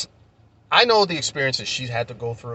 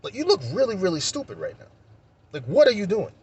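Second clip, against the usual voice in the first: exasperated challenge; 7 semitones higher than usual. Retold or imitated. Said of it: "I'm like".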